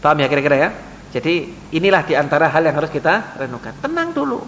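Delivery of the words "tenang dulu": calm down. Shown as a demonstration. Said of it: "kalau ada masalah tenang dulu".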